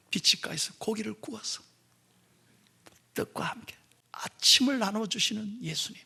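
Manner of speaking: soft near-whisper; hushed reverence. Acted. Pastor picturing Jesus feeding disciples, hushed whisper. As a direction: breathe it out in awe.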